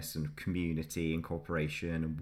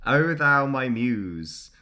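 slow, loud, high Scottish reading of a poem; a hammed-up Scottish bard; mock Scottish accent; 7 semitones higher, 8 dB louder, much slower than usual. Shown as a demonstration. Reading Burns to his co-host in a Scottish accent. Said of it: "attempting something that sounds a bit Scottish".

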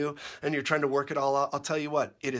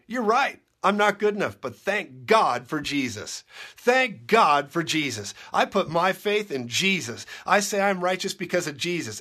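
louder, higher, defiant answer, slowing on thank God; bold declaration; 3 semitones higher, 5 dB louder than usual. Pretend. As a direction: throw it back at the devil. Answering the devil boldly.

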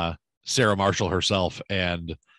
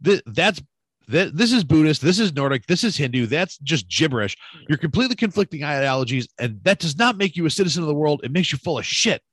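retold rant; 5 semitones higher than usual. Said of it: "points at his tattoos".

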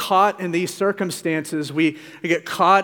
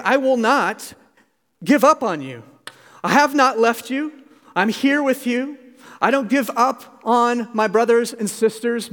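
pitched up, earnest and reassuring; Jesus reassuring; 5 semitones higher than usual. Retold or imitated. Preacher voicing Jesus promising the disciples he stays, raised earnest reassurance. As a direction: lift the voice into a tender promise that won't let go. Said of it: "He's saying".

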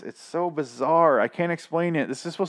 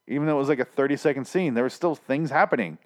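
strained, hoarse voice. Real, not acted. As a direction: voice going hoarse from ranting. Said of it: "I'm losing my voice 'cause I'm getting so angry".

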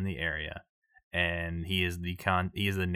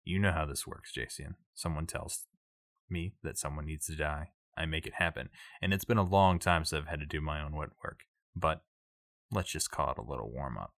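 understated crime boss; 2 semitones lower than usual. Acted. Game master plays the crime boss.

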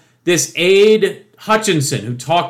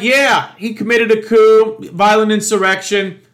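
mocking Trump voter; 2 semitones higher than usual. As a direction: ham up a supporter rattling off talking points. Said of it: "So they're like".

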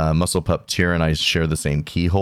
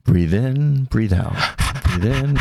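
breathing coach; 4 semitones higher than usual. Shown as a demonstration. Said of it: "don't pant".

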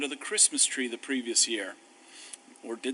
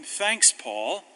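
sarcastic thanks; 3 semitones higher than usual. Acted. Sarcastic reply to Paul.

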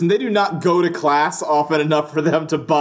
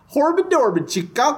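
high gibberish professor babble; weird high-pitched voice; 8 semitones higher than usual. Retold or imitated. Co-host imitating the professor at his desk, high-pitched gibberish. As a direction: babble nonsense in a high, odd voice. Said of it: "a weird high-pitched voice".

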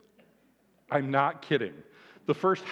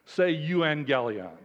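Marty impression; slower than usual. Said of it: "I'm gonna do my best Marty impression".

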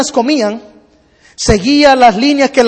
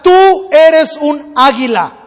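commanding an eagle to take off; urging call; 2 semitones higher, much slower than usual. Acted. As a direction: shoo a bird into flight. Merchant urges the eagle to fly.

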